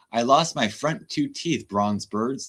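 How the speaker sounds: slow, lisping mock of a man missing his front teeth; mocking toothless talk. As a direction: make fun of his gap-toothed speech. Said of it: "This is how I talk now".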